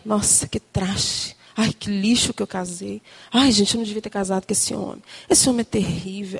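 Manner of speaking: low grumble to oneself; imitated resentful grumbling. Angry wife questioning her marriage at night, low grumbling. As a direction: imitate a wife's inner griping, pitched low. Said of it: "você começa a questionar".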